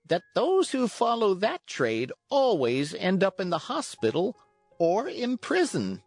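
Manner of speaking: high, measured warning; calm cricket. A narrator's reading. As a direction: warn without temper in a little insect voice. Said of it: "in his calm voice".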